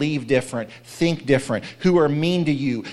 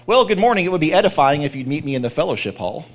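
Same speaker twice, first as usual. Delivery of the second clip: mock churchy greeter; 4 dB louder, faster than usual. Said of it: "that religious stuff kind of bothers me".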